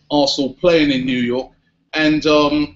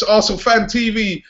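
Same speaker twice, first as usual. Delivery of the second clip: put-on New York accent; 6 semitones higher than usual. Presenter hamming a New York accent for the fans. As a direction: sign off like a brash New Yorker, in a New York accent. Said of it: "He's even got me doing the accent".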